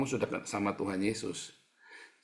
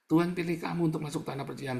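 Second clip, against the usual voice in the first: higher, faster emphatic repeat; 6 semitones higher, faster than usual. Acted. Statement repeated with force.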